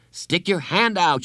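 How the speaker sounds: high mock holler. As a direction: call back over the noise. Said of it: "she hollered back".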